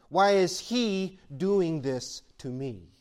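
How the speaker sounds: each word dragged out in a pleading whine; slow drawn-out complaint. Retold or imitated. Believer asking God why, slow pleading. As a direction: slowly ask why is He doing this to me. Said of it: "we say".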